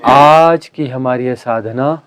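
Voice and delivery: slow, drawn-out prayer line; solemn invocation. Real, not acted. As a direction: lead a group prayer, stretching the opening word. Leads a group invocation.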